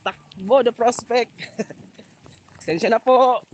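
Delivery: breathless, high and loud on the run; while running. Real, not acted. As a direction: call out while dashing through rain. Running through rain, laughing.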